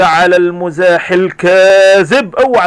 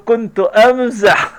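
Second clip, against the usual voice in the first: laughing; 4 semitones higher, much slower than usual. Acted. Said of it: "كريم يضحك ويقول".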